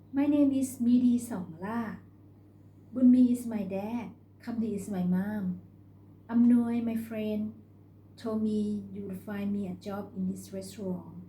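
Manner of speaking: lightly voiced country girl; a girl introducing herself for a job; young girl's voice.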